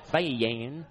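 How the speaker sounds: "Van" drawled into two syllables, va-yan; "Van" as a Texan would draw it out; Texan added syllables. Shown as a demonstration. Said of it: "they add in syllables to individual letters".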